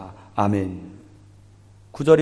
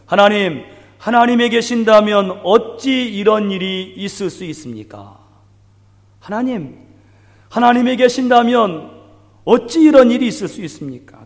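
anguished plea; 5 semitones higher than usual. Acted. Gideon's anguished questioning of God.

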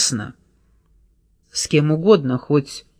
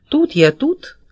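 put-on much higher, sung-out girlish voice; cheerful girly singsong; 10 semitones higher than usual. A narrator's reading. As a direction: sing it out playfully like a young girl. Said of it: "весело пропел девичий голосок".

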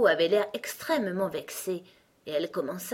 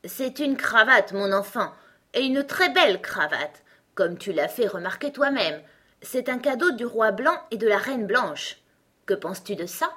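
higher, louder, self-important character voice; proud, mollified Gros Coco; 4 semitones higher, 5 dB louder than usual. Acted. Gros Coco shows Alice his tie, softened and proud. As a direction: show off the gift with pride.

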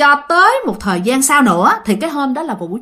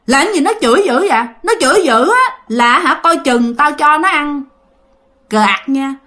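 raised pitch, indignant ghost's complaint; retold threat; 4 semitones higher than usual. Ghost warns mother about her cursing husband, indignantly threatening. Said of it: "bà nói vậy á".

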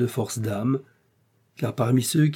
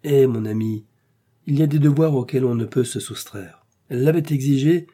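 sulky exclamation; 2 semitones higher, 4 dB louder than usual. Acted. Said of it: "s'écria d'un ton maussade".

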